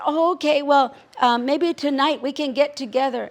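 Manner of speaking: high, loud eager rush; eager pleading. Acted. Coyote begging his friend to come tonight, eager. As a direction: push hard to meet tonight.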